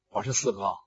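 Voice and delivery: very low, soft gruff try-out; big gruff voice. Acted. Luo Cheng practises his disguise, low gruff voice. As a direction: drop deep into a coarse voice. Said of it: "我得拿个大粗声".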